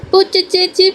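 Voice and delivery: put-on high little-girl call, falling; a toddler calling her big sister across the yard; high childish call for Pooja.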